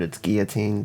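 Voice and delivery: put-on "guillotine" with a silent L, gee-yuh-teen; "guillotine" without any L sound; corrected pronunciation. Shown as a demonstration. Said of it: "not the correct pronunciation of the word".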